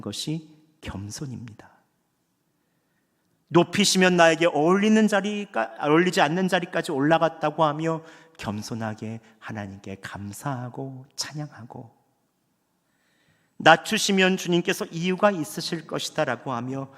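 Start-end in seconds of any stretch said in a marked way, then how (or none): none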